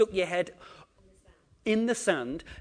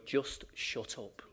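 slow, soft odd little inner voice; a tiny man in your head, slow; lightly voiced inner little man; 5 semitones lower, 10 dB quieter, slower than usual. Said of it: "closing your mouth all the time going".

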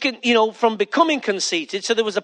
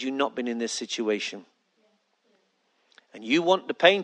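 lower, softer voice of God; fatherly coaxing; 5 semitones lower, 3 dB quieter than usual. Acted. Preacher as God talking Paul through pain, fatherly. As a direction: coax him through it like a patient father.

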